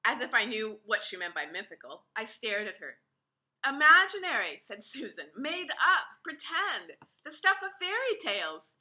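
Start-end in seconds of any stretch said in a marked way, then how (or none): 3.6-8.7 higher, amused adult voice; amused Susan. A narrator's reading. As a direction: explain with rising amusement.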